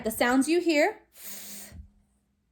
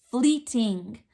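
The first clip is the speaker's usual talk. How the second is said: whispered word; 3 semitones lower than usual. Shown as a demonstration. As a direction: whisper "fleeting" as the answer.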